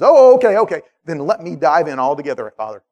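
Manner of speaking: overeager relief; eager about-face. Retold or imitated. Peter eagerly reversing himself.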